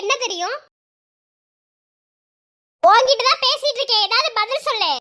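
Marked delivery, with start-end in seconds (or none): 2.8-4.9 raised voice. Acted. Husband demanding an answer.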